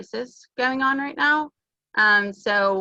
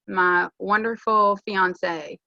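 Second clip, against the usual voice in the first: slow, drawn-out mock praise; sarcastic; much slower than usual. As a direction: stretch out the endearment with dry sarcasm. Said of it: "Do you feel the sarcasm?".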